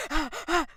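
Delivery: high-pitched imitated panting; mock panicked gasps. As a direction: act out her flustered gasps. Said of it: "bare panicking".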